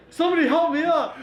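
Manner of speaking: high-pitched mock cry for help; mock crying plea. Friend with twisted ankle begging for help, mock wail. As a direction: imitate a hurt friend wailing for rescue. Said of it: "He was crying like a little girl".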